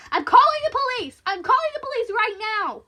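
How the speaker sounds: high, full-force warning; loud defiant threat; shouting. Acted. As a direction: yell it to scare off an intruder. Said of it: "She liked shouting".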